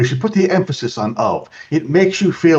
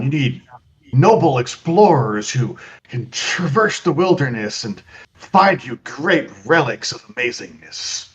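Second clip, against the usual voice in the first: playing dumb. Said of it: "intentionally sounding as stupid as possible".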